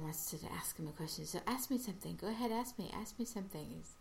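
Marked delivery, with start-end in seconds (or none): 1.5-3.7 higher, eager pleading; retold excitement. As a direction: imitate someone bubbling to be asked. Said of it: "very excited".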